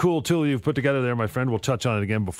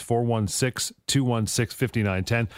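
slow dictation; slower than usual. Real, not acted. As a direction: slowly read out phone number. Repeats number to write down.

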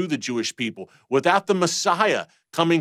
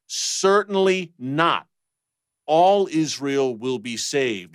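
"Certainly" pitched up, slow and firm; emphatic quote; slower than usual. Retold or imitated. Quoting Paul to Raj, slow emphatic declaration. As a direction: quote Paul slowly with full conviction. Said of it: "but he's very emphatic".

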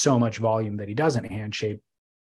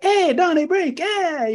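a mock Irish leprechaun accent, much higher and squeaky; bad leprechaun accent; 4 dB louder, slower than usual. A surfboard shaper mockingly greets a fellow shaper in a bad Irish leprechaun accent. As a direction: tease him in a hammed-up Irish leprechaun lilt. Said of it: "it was a leprechaun".

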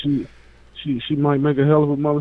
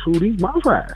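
monster voice; 7 semitones higher than usual. Pretend. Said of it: "and my monster voice".

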